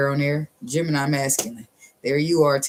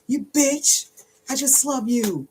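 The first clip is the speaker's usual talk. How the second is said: playful tease; 11 semitones higher, slower than usual. Pretend. Teasing, high put-on voice.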